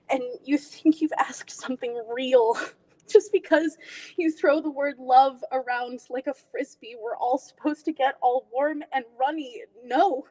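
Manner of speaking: bitter, scoffing audition monologue; dramatic monologue. Acted. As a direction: dismiss the idea with wounded scorn.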